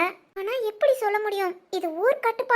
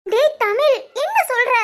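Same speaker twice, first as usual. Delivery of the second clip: louder, rising alarmed call to her son; raised voice calling out his name; 2 semitones higher, 5 dB louder than usual. Acted. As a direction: call him sharply, shocked. Mother calls to son in shock.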